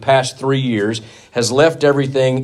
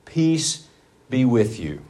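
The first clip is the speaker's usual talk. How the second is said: gentle greeting; 5 dB quieter, slower than usual. Retold or imitated. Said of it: "Jesus says".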